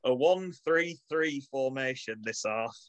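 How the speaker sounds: hearty Manchester team talk; rally the players, Manchester accent. Pretend. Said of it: "in my best Manchester accent".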